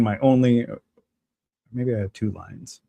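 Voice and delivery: ordinary delivery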